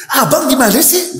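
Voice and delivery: wife scolding her husband Jabir, high and nagging. Retold or imitated. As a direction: scold him like an exasperated wife. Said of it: "Begitu ngomel sama Jabir".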